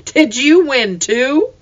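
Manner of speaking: high, slow, wondering; mother marveling at her son; amazed question. A narrator's reading. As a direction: ask in disbelief. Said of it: "Mama exclaimed".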